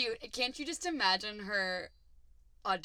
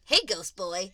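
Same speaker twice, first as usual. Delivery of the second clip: loud, friendly hello; 7 dB louder, slower than usual. Retold or imitated. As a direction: call out to a pal, no dig. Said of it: "like, friendlier".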